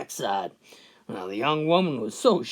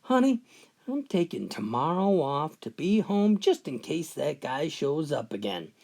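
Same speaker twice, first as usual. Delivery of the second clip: loving and concerned; 2 semitones lower than usual. Retold or imitated. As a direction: lightly reassure your wife. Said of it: "in a loving and concerning voice".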